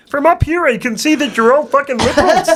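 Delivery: high, lofty giraffe voice; Jordan Peterson giraffe. Acted. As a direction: look down on them from way up. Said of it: "Jordan Peterson as a giraffe".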